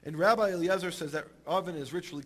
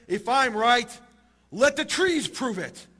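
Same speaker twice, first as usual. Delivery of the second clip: loud, raised cry, stretched slow at the end; shouting out; 5 semitones higher, 7 dB louder, slower than usual. Acted. Rabbi calling on the trees for proof, shouting out. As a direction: call out a challenge, high and forceful. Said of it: "Rabbi Eliezer shouts out and he says".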